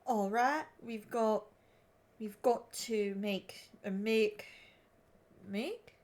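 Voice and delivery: put-on halting Aussie accent, feeling out the vowels; Australian accent attempt. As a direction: stop and start in an amateur Australian accent. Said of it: "attempt to do the Australian accent".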